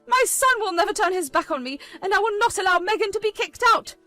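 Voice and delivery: screeching protest. Acted. Mother screeching at the wife to stay in the house. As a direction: shriek that they can't be thrown out.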